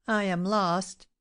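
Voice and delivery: understated dazed despair; dazed stammer. A narrator's reading. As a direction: draw it out as if stunned. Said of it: "he stammered, without knowing what he said".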